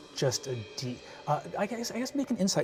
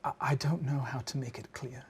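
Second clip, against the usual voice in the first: crying; 4 dB quieter than usual. Acted. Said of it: "she starts crying".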